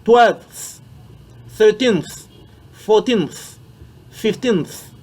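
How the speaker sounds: each ordinal said slowly and clearly, tongue between the teeth; th at the tongue tip. Shown as a demonstration. Teacher drilling French students on ordinals, tongue between teeth. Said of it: "on met la langue entre les dents".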